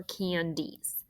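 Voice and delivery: candies said slowly with a long E before the s; teacher modelling the long E in candies; long E sound. Shown as a demonstration. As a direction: stretch candies, leaning on the long E. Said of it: "this I still sounds like that long E".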